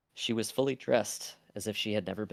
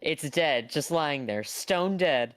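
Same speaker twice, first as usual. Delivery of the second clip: put-on Australian accent; 6 semitones higher, 6 dB louder, slower than usual. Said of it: "doing, like, an Australian accent".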